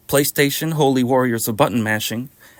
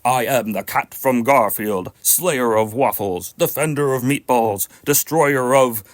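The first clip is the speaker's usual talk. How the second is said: epic fantasy narrator; 3 semitones lower than usual. Acted. Voicing Garfield as epic hero.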